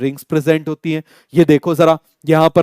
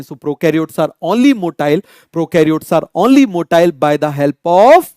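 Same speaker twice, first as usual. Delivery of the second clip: very slow, rising and left hanging for the class to finish; slow fill-in prompt; much slower than usual. Shown as a demonstration. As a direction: drag it out so students supply the last word. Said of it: "बोलो, बोलो".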